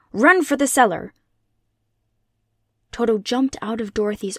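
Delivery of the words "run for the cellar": loud, higher-pitched panicked order; screamed command. A narrator's reading. Aunt Em sends the girl to shelter from the cyclone, screaming. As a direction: shout it high and urgent. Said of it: "she screamed".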